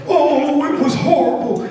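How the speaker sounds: put-on high, melodramatic old mouse; old Mouse Johnson. Old mouse recalling the lab, high mock horror. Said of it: "Like old Mouse Johnson".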